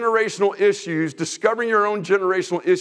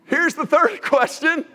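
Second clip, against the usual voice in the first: slow, laughing through the words; 6 semitones higher, slower than usual. Real, not acted. Pastor laughing while announcing the next question. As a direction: chuckle as you announce it. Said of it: "'cause that's not enough".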